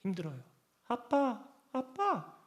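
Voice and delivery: whisper-soft pleading, like kneeling in prayer; lightly acted, quiet call to Daddy; soft crying out. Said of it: "외칩니다".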